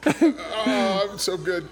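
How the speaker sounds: 1 doped-up contentment. Retold or imitated. Retelling being high on morphine.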